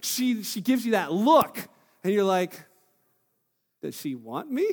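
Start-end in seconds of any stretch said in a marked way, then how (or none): 3.8-4.7 laughing guess. Retold or imitated.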